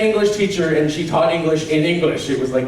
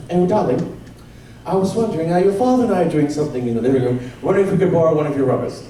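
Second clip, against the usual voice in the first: British mum; faster than usual. Retold or imitated. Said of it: "very British".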